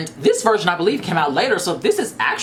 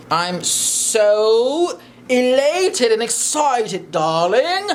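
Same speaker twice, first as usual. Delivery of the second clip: mock diva gush; 8 semitones higher, 3 dB louder, much slower than usual. Showing off the bag, hamming it.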